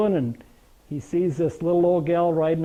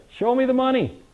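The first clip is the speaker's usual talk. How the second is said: higher, punchy movie-catchphrase quote; Jerry Maguire; 6 semitones higher than usual. Retold or imitated. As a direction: toss out the famous film line with gusto. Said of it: "Jerry Maguire".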